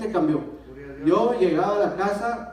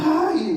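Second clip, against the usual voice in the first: high, drawn-out "ay"; reenacted "ay"; 10 semitones higher, 5 dB louder than usual. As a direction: let out a higher-pitched "ay" of dread. Reacting to the sight of alcohol.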